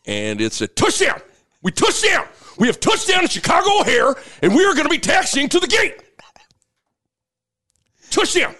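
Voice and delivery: high excited pilot call; pilot announcement. Retold or imitated. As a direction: call the landing like a touchdown. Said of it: "what Greg Sharp says when they land".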